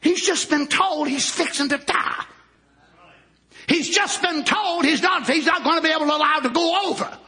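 full-force preaching. Real, not acted. Telling the congregation of a new generation, full-force preaching. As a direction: preach it out with hard, rolling emphasis.

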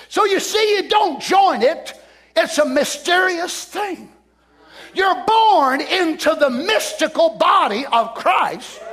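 slow, forceful preaching. Acted. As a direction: drive each phrase home slowly.

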